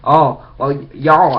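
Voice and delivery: lightly mimicked wrestling commentator accent; a rough attempt at his weird accent; halting, half-hearted impersonation of a commentator; JBL. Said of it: "he does this weird J B L accent".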